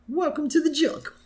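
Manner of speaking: very high, laughing through the title; laughing song title. Retold or imitated. Recapping the wrong tape, squealing it through laughter. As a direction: crack up while announcing the rock song. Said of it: "another tape".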